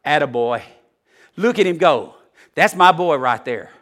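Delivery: loudly cheering proud dad, lightly voiced; encouraging father. God as a father cheering his child on, encouraging. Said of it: "That's the way he talks".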